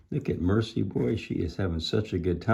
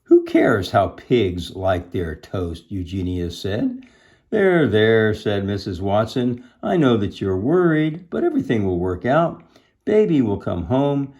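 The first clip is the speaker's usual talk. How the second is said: emphatic storybook dialogue; animated story reading; 3 semitones higher, 7 dB louder than usual. A narrator's reading. Missus Watson reassuring worried Eugenia, animated storytelling. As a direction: go from scornful question to firm comfort.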